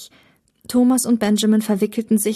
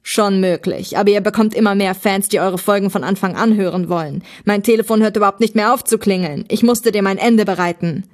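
loud, hurried complaint from a fed-up villain; louder, pressing rant; exasperated villain; 5 dB louder than usual. Acted. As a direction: voice an exasperated bad guy venting.

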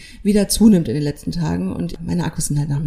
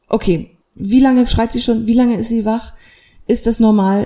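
urgent therapist; 3 semitones higher, 5 dB louder than usual. Retold or imitated. Therapist asks the mother about the crying, urgent. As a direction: question her with urgency.

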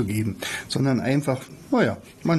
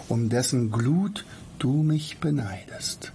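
poem recitation; 3 semitones higher than usual. Acted. Teacher recites Goethe's Prometheus to listeners, poem recitation. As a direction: recite it like a ballad, drawing out key words.

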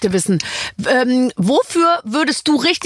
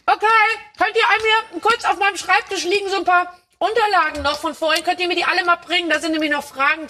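calling out; 8 semitones higher than usual. Real, not acted. Calls out to the crew.

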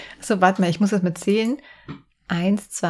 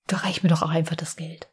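softer whispered confession; whispered aside; 4 semitones lower, 5 dB quieter than usual. Real, not acted. Admitting she prefers money, quiet whisper. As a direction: let it slip out as a whisper. Confiding she'd rather be rich.

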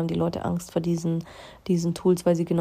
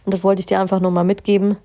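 fast, louder, laughing; amused admission of a tangent; 5 dB louder, faster than usual. Real, not acted. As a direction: rush it out through a laugh.

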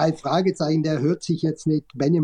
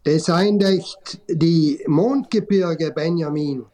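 slow Tyrolean dialect; slower than usual. Acted. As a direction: drawl it out in Tyrolean. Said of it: "Tiroler, äh, Dialekt".

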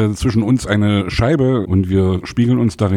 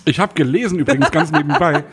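laughing; 5 semitones higher than usual. Real, not acted. Laughing during introduction.

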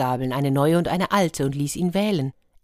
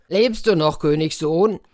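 raised, loud giant's call; storybook giant's shouted question, lightly played; 5 dB louder than usual. Giant calls down into the cistern.

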